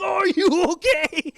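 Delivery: high, loud concern breaking into a laugh; stifled laugh. Retold or imitated. Dad checking fallen kids, stifled laugh. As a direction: ask while holding back laughter. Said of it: "he's trying not to laugh".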